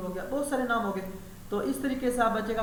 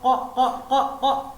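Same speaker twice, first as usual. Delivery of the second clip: louder, laughing mock crow caws; 3 semitones higher, 5 dB louder, much slower than usual. Retelling the crows on the wall, laughing cawing. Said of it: "وہ آواز نکال رہے ہیں".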